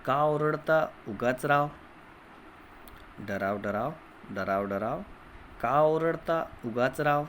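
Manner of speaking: put-on sing-song chant, line by line, for children to repeat; poem recitation. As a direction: recite the rhyme with a lilting classroom rhythm. Teacher recites poem with class.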